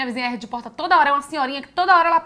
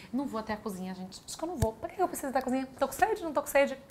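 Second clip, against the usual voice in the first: hushed, hesitant mutter to herself, softer; scared hushed self-talk; 10 dB quieter than usual. Retold or imitated. Alone at night, too scared to fetch water, hushed and hesitant. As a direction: talk yourself out of going into the dark. Afraid to cross dark house.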